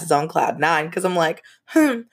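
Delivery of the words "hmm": rubbing it in, mock smug; a sing-song brag with a teasing laugh; smug gloating. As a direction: taunt the boyfriend with a smug brag. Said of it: "just rubbing it in his face".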